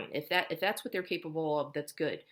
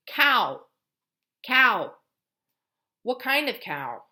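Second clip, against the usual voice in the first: raised, lively teacher voice; high modeling voice; 7 semitones higher, 9 dB louder, slower than usual. Shown as a demonstration. Therapist prompting child with a picture, high and lively. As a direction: lift it up for a toddler.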